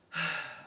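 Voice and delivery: short audible sigh; exasperated sigh. Real, not acted. Woman recalling foolish love, exasperated sigh. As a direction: sigh at your own foolishness.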